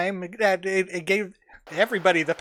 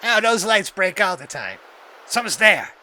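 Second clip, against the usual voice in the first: startled guard; 6 dB louder than usual. Acted.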